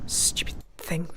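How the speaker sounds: slow, irritated whisper under her breath; annoyed whisper. Real, not acted. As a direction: mutter at the stupid game. Annoyed at the clouds.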